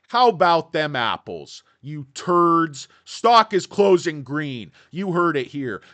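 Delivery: gloating shout. Real, not acted. Gloating prediction at shorts.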